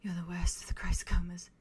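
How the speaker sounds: soft, whispered words from Aurora. Acted. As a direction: say it barely voiced, in a whisper. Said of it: "her voice just very softly say".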